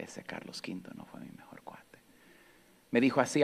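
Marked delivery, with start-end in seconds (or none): 0.0-2.0 barely voiced, ashamed little confession; guilty whisper. Boy confessing the stolen chocolate to grandma, guilty whisper. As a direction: whisper it like a caught child.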